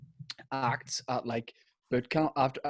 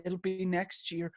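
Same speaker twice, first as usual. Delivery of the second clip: higher mock-dramatic reveal; Louis Walsh; 5 semitones higher than usual. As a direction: lightly imitate a judge building to good news. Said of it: "Louis goes".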